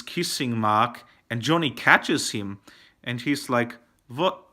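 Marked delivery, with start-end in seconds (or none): 4.1-4.5 put-on strange accented "what", pitched up; Tommy Wiseau. Reviewer mimics the actor catching Lisa kissing Mark, strange accented voice. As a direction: imitate a strange accent on one questioning word. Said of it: "with his strange voice that Tommy Wiseau uses".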